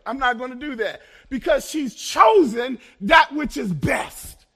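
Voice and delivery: gently refusing Martha, rising to full force; Jesus' voice, paraphrased. Acted. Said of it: "Let me say it like this".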